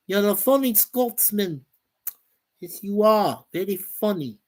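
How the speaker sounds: put-on not-quite-right Scottish accent; attempted Scottish accent. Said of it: "Not my best accent".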